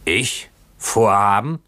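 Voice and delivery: incredulous outburst, moderately loud; indignant drunken cry. A narrator's reading. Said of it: "schrie der Bootsmann".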